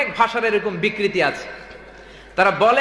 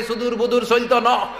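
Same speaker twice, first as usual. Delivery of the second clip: mock Noakhali slogan; 4 semitones higher than usual. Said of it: "আরেক দল কয়".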